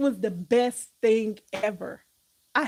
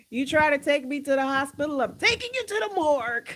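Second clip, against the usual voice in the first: movie tough talk; 2 semitones higher, 4 dB louder than usual. Acted. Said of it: "What movie was that?".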